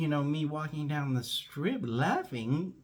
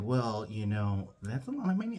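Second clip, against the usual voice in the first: hesitant objection; 3 semitones lower than usual. Retold or imitated. Boss hedges about the cost.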